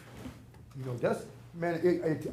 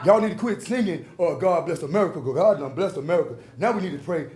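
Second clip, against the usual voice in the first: fervent preaching; 6 dB louder than usual. Real, not acted. Preaching to city council.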